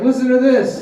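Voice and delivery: mock working man's excitement; eager carpenter. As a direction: hush the room like a proud fan. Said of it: "the carpenter's like".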